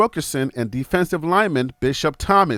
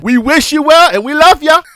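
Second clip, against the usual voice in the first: laughing; 9 semitones higher, 10 dB louder than usual. Real, not acted. Laughing after threatening rival players.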